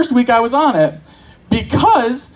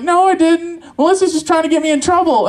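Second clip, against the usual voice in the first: put-on higher, hurried kid's denial; child protesting innocence; 6 semitones higher than usual. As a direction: plead innocence like a blamed child. Imaginary child denying blame.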